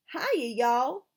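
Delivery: bright, loud country hello; friendly Southern shout to the bus; cheery greeting. A narrator's reading. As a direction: wave hello to the whole bus. New boys greeting whole bus.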